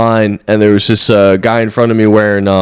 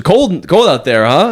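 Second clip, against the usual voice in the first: bro impression; 6 semitones higher, slower than usual. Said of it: "And he goes".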